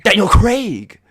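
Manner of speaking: high, loud, drawn-out yell of a name; painful belting. Pretend. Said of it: "Sorry, my voice was just".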